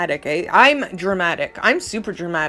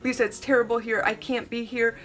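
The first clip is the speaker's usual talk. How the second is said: retold distress; 3 semitones higher, 5 dB quieter than usual. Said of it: "She's all distraught, totally upset".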